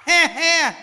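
big ringing ha ha laughs, high and loud; hearty demo laugh. Shown as a demonstration. Monk leading the hall in laughter, hearty laugh. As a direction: lead the crowd in full-throated laughter. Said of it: "thí dụ như".

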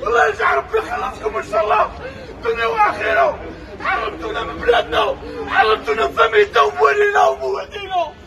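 sobbing furious shouts; angry crying. Real, not acted. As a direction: yell your grief and rage. Man burying parents, ranting abroad.

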